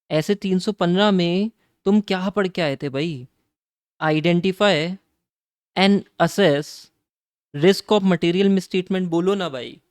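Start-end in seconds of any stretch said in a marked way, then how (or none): 4.0-9.1 very slow and louder, word by word; hammering home the definition for the class, slow and loud; slow emphatic recital. Shown as a demonstration. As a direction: recite the standard's words like dictation. Teacher recites standard's wording slowly.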